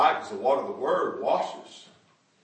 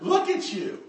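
put-on high, loud cracking old lady coo; cracked-up old lady voice; 10 semitones higher, 8 dB louder than usual. The old lady doting on John, high and cracked. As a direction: croon it like a doting old woman. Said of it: "cracked up voice".

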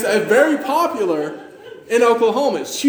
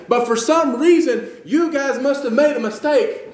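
higher-pitched, animated governor; acted astonishment; 5 semitones higher than usual. Governor marvels that the best came last, acted astonishment. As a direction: play the puzzled governor, voice lifted. Acting out the governor's surprise at wine.

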